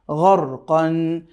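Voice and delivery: গর কন stretched very slowly, syllable by syllable; গর কন said slowly, each sound held; slow model reading. Shown as a demonstration. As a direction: draw out গর কন for the learner to copy. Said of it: "ঠিক এভাবে করে আপনি".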